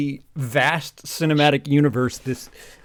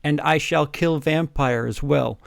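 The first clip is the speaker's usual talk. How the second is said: evil villain voice; slower than usual. Acted. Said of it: "Said evilly in his raspy voice".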